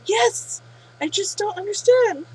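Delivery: a light, put-on whine; whining. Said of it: "He whines".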